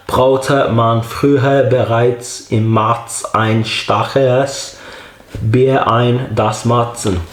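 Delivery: slow, careful reading in halting amateur German; German label read-out. Acted. Reviewer reading beer label for German speakers, slow halting read-out. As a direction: read it out slowly, word by word, in German.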